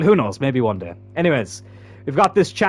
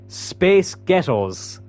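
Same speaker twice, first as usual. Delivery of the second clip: deliberate demo; 2 semitones higher, much slower than usual. Shown as a demonstration. Streamer showing viewers a wordplay, slow demo. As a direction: space ghettos drawn out slowly. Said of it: "If you say the words".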